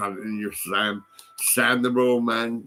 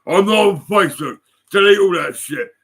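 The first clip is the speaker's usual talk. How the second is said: high, loud whiny mimicry; mocking Andy; 8 semitones higher, 9 dB louder than usual. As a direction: parrot him in a shrill mock voice. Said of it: "isn't it, Andy?".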